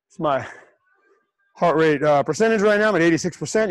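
panting between words, out of breath. Real, not acted. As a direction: talk while out of breath. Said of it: "'cause I'm out of breath".

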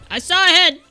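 insistent repeat. Real, not acted. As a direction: insist on the sighting.

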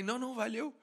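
high, soft mock brush-off; imitated crew brush-off. Crew declining his request, high mock brush-off.

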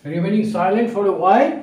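slow, even model phrase; slow model reading. Shown as a demonstration. Teacher modelling the phrase, slow and clear. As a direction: read it out slowly for the class. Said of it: "আমরা এরকমভাবে বলতে পারি".

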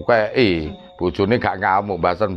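ordinary delivery

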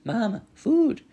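put-on high, loud, slow baby-bird plea; little gosling voice, drawn out; hungry gosling. A narrator's reading. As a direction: whine for food like a hatchling. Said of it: "said the gosling".

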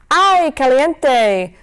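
slow, loud wail of burning pain; scalded yelp. Acted. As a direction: howl it as the hot soup hits. Wolf scalded by hot soup.

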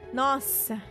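normal talking voice

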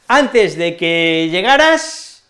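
Antes drawn out and stressed, slow phrase. Shown as a demonstration. Teacher shows learners a temporal clause, stressing "Antes". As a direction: lean hard on "Antes", taking it slowly. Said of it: "Entonces, la enfatizamos".

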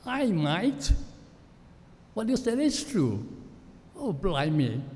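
working-class London heckler answering back; working-class London accent. Retold or imitated. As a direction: chirp it like a Cockney heckler. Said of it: "this time from a working class".

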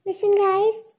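loud call to the group. Acted. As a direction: raise the voice to get attention. Calling the group to listen.

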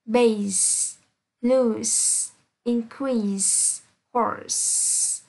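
"base", "loose", "increase", "horse" each ending in a long voiceless s; word by word, crisp s closing "base" to "horse"; final s sound. Shown as a demonstration. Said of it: "S E sẽ được đọc là S".

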